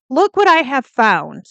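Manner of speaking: theatrical, high-pitched proclamation; hammed-up grand reveal, badly faked on purpose; mock-dramatic father. Father presents his discovery to police, mock-dramatic. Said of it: "I'm sure he didn't say it like this".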